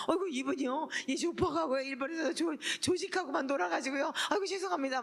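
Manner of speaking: flustered apology. Retold or imitated. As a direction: fluster and bow your head in words.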